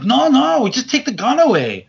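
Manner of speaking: mock casual security guard; high dismissive no. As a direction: shrug it off casually. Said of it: "They're like".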